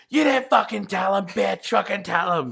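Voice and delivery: a hammed-up angry outburst; mock angry rant. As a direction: chew him out in character. Quoting movie character angry.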